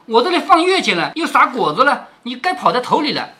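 mock the lazy maid with sarcasm; sarcastic scolding. Qingwen mocking Zhui'er, sarcastic. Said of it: "晴雯说".

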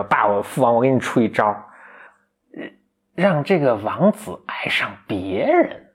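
put-on slow, scheming daughter from an old dub; cartoon daughter voice. Daughter offers her demon father a scheme, slow and sly. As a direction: lightly voice the villain's daughter plotting. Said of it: "你学这声音特像".

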